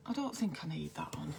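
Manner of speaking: real whisper, off to the side; murmured note to self; whispered aside. Real, not acted. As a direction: drop into a whisper to herself. Aside while fixing her screen.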